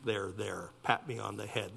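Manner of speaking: half-hearted mock comfort; mock soothing. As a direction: lightly parody someone wanting to be babied. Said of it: "a self-centered soothing".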